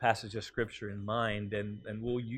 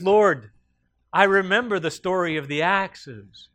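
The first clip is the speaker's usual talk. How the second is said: higher, louder, eager pleading; a poor man pleads eagerly with the Lord, higher and louder; pleading excuse; 8 semitones higher, 9 dB louder than usual. Acted. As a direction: beg the Lord with a cheeky excuse. Man's excuse in joke punchline.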